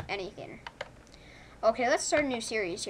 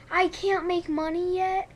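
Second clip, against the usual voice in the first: indignant disbelief; 7 semitones higher, 4 dB louder than usual. Real, not acted. Game won't let him earn.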